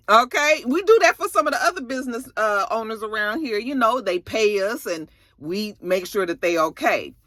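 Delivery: a hint of a smooth, pushy neighborhood cop; menacing local cops. Cops pressure Rock into paying for protection, lightly mimicked.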